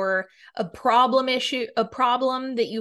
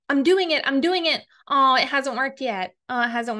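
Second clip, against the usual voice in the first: lightly mocking, raised-pitch repetition; imitated insistence; 2 semitones higher than usual. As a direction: parrot an impatient complainer. Mimics impatient people checking for results.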